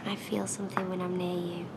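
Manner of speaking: soft, low, breath-led confession; intimate seductive whisper. Acted. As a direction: whisper it close, with long pauses. Woman seduces reluctant man, close up.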